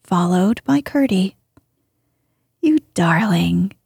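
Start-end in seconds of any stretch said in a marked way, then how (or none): 2.6-3.7 fond cry. Acted. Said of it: "cried the lady".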